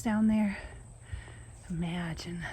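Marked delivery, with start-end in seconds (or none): 1.7-2.4 whispering. Real, not acted. Admiring the view below.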